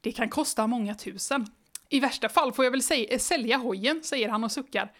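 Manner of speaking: even, lively read-aloud pace; storybook reading voice; story narration. A narrator's reading. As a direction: read the children's book to the listener. Reads the book aloud.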